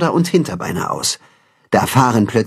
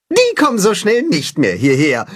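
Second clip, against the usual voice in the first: pleased; 5 semitones higher than usual. A narrator's reading. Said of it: "freut sich Timme".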